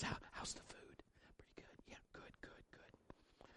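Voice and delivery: hushed whisper, voice gone. Retold or imitated. Husband leaning over to his wife to ask about the check, whispering. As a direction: whisper it so the table can't hear.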